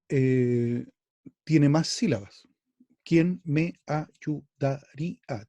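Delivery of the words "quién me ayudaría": "¿Quién me ayudaría?" slowed, "me a" run together in one beat; syllables counted out. Shown as a demonstration. Teacher showing the class the merged "me a" beat, slowly. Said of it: "Tiene siete sílabas".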